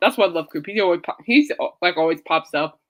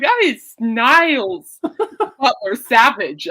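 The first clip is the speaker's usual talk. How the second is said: slow, laughing through the words; 2 semitones higher, much slower than usual. Real, not acted. Fan laughing at the host's savage joke, slow and laughing. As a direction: chuckle out each word slowly. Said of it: "I'm like".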